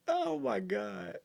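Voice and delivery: slow, high, loud oh my God; drawn out in amused disbelief. Real, not acted. Reacting to a rapper's last bar, slow and high in disbelief.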